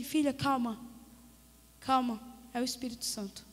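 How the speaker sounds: calm a panicked caller gently; tranquilizador. Retold or imitated. Pastor calming her, retold. (voz calma e baixa de quem acalma)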